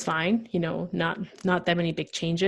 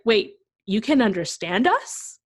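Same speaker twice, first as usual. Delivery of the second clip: louder, higher, drawn-out disbelief; astonished classmate; 4 semitones higher, 6 dB louder, slower than usual. Retold or imitated. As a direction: imitate a stunned classmate slowly working it out. Classmates astonished she understands them.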